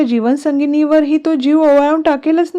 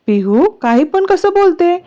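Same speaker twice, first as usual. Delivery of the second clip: higher-pitched, mildly cross question; angry reproach; 7 semitones higher than usual. A narrator's reading. Mother interrupts Pihu's question about divorce, mildly angry. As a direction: cut in with a touch of indignation. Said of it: "त्या रागात बोलतात".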